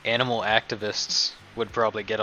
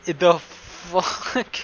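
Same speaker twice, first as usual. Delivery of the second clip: disbelief; 7 semitones higher, 3 dB louder, much slower than usual. Real, not acted. S1 reacting to a card in disbelief.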